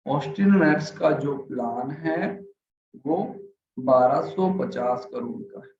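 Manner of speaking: slow, dragging delivery; boring, slowed-down reading; slow, sleepy demo. Shown as a demonstration. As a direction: drag it out so they nod off. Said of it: "अगर मैं इस तरीके से बात करूं".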